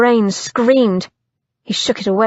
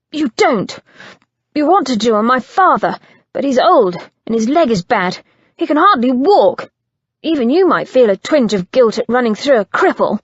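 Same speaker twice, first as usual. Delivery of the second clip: heated accusation; 3 semitones higher, 3 dB louder, faster than usual. Acted. Christian accuses Simon about his crippled father, heated. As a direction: push the words out hot.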